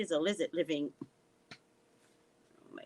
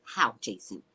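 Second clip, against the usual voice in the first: sarcastic; 8 semitones lower than usual. Retold or imitated. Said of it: "I'm sarcastic like this".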